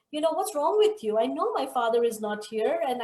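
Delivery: a child's indignant scolding, lightly acted; boy scolding. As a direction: play the frustrated little boy demanding an answer.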